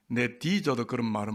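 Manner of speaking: low Gyeongsang dialect punchline. Acted. Preacher answering his love-confession quiz as a Gyeongsang husband, Gyeongsang dialect. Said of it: "경상도 말로 하면".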